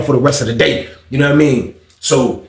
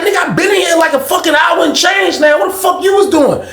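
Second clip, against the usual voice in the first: hyped shout. Retold or imitated. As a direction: yell it like an old friend spotting you. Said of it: "He was like".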